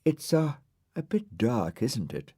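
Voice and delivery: a sweet, coy little voice; sweet, dainty star voice; sweetly. Acted. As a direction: charm them, sugary. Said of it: "said the star sweetly".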